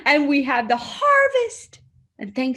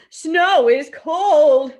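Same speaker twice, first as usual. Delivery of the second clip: slow, even machine readout; computer voice; 2 semitones higher, 8 dB louder, much slower than usual. Acted. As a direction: read it out like a computer. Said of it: "The computer tells Kitty".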